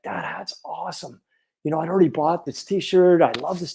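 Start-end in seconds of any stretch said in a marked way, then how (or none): 0.0-1.2 soft whispered admiration, barely voiced; hushed whisper. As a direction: whisper it softly, like a secret aside. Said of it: "And I'm like".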